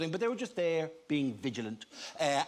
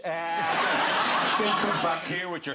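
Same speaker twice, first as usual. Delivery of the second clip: mock jealous rant; 5 dB louder, slower than usual. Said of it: "friends who aren't gonna go".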